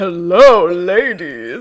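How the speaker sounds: very deep, low, booming voice. Retelling a watched scene where Bibble eats a special berry underwater, Bibble's very deep voice. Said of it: "it gives him like a very deep voice".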